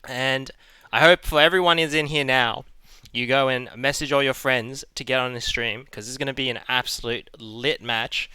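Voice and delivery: energetic tournament host intro; esports caster. Real, not acted. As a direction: hype up the match like a caster.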